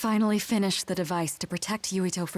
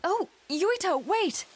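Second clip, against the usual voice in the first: put-on calling after a child, high; 12 semitones higher, slower than usual. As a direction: call out to stop him.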